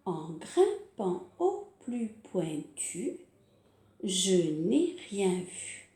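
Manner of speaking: slow sing-song nursery rhyme; rhyme recital. Shown as a demonstration. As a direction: recite it slowly for children. Recites climbing rhyme slowly.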